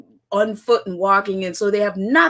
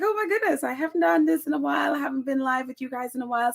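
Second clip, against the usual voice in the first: excited self-quote; 4 dB quieter, faster than usual. Retold or imitated. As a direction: rush it out in happy disbelief. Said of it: "I'm like".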